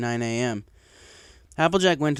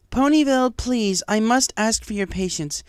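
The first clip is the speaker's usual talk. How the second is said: addressing crowd; 9 semitones higher, 5 dB louder than usual. A narrator's reading. Celestia addresses the angry mob, loud and pleading. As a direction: call out to calm the crowd.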